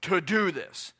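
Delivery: loud, insistent, stretching the final command; forceful exhortation. Acted. Preacher looking at the audience, forceful exhortation. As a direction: exhort them with no room for choice. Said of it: "look at the audience and say".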